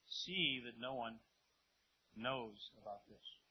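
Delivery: slow, measured warning; stern warning. Acted. Jesus cautions the healed men, mildly stern. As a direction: spell it out slowly, understated but firm. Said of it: "Jesus sternly warned them".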